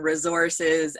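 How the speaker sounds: "resources" with a Z sound, re-ZOR-ces; Canadian pronunciation. Retold or imitated. Wife mimics Canadian husband, "resources" said his way. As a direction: imitate a Canadian saying "resources". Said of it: "he's Canadian and".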